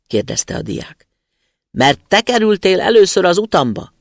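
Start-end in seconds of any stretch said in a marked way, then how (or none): 1.7-3.9 booming spirit. Acted. Spirit replies.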